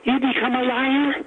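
a hint of an Irish lilt, high; lightly voiced old Irish granddad asking. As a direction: granddad mishearing with a touch of Irish accent. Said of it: "who's got some Irish accent in him".

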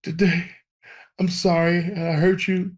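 mock-tearful sorry to God; imitated tearful prayer. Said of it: "And I'm bawling crazy".

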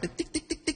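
quiet tick tick of a barbecue starting; imitated igniter clicks. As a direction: click it out softly like a gas grill lighter.

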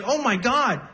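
high cooing voice to a puppy; baby talk to a dog. Retold or imitated. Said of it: "This one guy was like".

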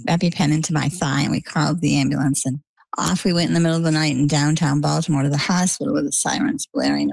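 usual speaking voice

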